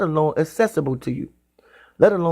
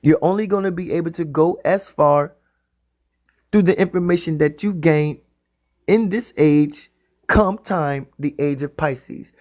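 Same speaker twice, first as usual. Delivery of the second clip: slowed down, dwelling on the end words. Shown as a demonstration. Preacher repeating his point to the congregation, said slowly. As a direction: stretch out the last phrases slowly. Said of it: "let me say it slow".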